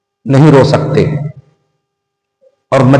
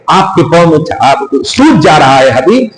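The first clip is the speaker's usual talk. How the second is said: loving divine address; 3 semitones higher than usual. Acted. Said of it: "ایسی آواز آنی چاہیے".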